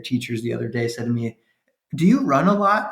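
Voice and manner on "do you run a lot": mock teacher voice. Quotes daycare teacher.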